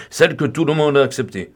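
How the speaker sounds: ordinary delivery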